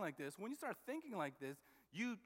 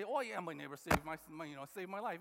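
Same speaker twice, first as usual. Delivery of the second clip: flippant; 3 semitones lower, faster than usual. Retold or imitated. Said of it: "just, like, flippantly say it".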